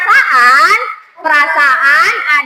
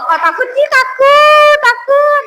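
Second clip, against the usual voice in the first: fear demo; 7 semitones higher, slower than usual. Shown as a demonstration. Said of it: "Muka ekspresinya gimana kalau takut?".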